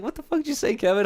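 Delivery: high-pitched mock outrage; retold indignant shock. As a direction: act out disbelief, voice shooting up. Retold shock at Kevin's words.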